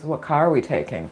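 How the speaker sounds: quiet, offhand movie-buddy reply; nonchalant. Retold or imitated. Best friend agreeing without questions, nonchalant. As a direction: toss it off softly, totally unbothered. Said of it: "looks up nonchalantly and says".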